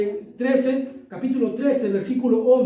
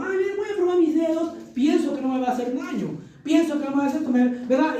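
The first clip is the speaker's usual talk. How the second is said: put-on child voice; 4 semitones higher than usual. Child deciding to touch socket.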